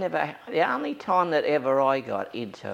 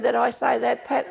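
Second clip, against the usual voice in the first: much higher, louder retort; mock indignant priest; 13 semitones higher, 7 dB louder than usual. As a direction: throw the question back, high and loud.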